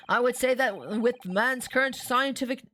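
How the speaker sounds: put-on detective voice tinged with Gina's accent; slipped into Gina's accent. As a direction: let Gina's accent creep in. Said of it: "mixing in Gina's accent".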